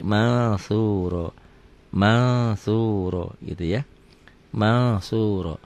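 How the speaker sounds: "mansuro" slowly, N hidden in a held nasal; held ikhfa. Shown as a demonstration. Teacher answers how it is read, "mansuro" with held hidden N. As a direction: hum through the N of "mansuro" into the s. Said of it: "Bacanya gimana?".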